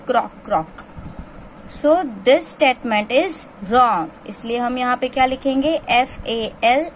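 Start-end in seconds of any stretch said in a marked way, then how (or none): 0.1-0.8 frog croak. Pretend. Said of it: "frog का sound क्या होता है?".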